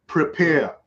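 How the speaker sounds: ordinary talk, nothing marked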